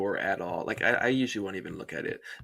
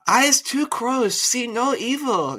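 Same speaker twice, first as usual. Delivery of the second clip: high, slow hammed-up East Asian accent; exaggerated East Asian accent, stretched out slowly; 13 semitones higher, 6 dB louder, slower than usual. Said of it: "I sounded kinda Asian there".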